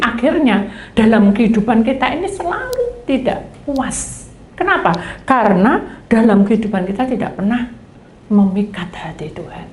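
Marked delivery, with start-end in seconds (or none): none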